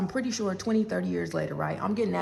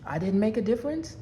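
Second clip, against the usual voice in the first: incredulous rising question; disbelieving echo. Retold or imitated. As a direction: repeat his words back, can you believe it. Echoing his words in disbelief.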